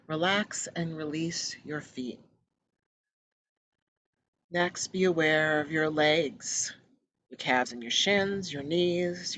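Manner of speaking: measured, soothing meditation guide; unhurried instructions with long pauses; guided meditation. Acted. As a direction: ease listeners into relaxation, pausing between phrases.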